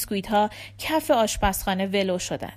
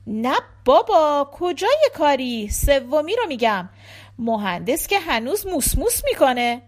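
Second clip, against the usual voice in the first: gossipy dressmaker; 4 semitones higher, 5 dB louder than usual. A narrator's reading. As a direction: lightly play a dressmaker dishing about her men. (خیاط خودمانی و پرحرف، با اجرای ملایم)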